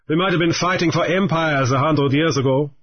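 lightly voiced, cool pirate greeting; a hint of a pirate. Raoul the pirate greets Grief, lightly voiced and cool.

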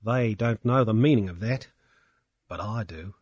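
high, loud tearful ranting; blubbering drunk. A narrator's reading. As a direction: blubber out your grievance. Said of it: "Pankburn was blubbering".

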